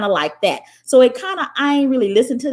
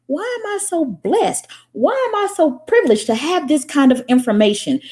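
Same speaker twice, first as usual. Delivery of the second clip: smug inner voice; 6 semitones higher than usual. Retold or imitated. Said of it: "I'm thinking".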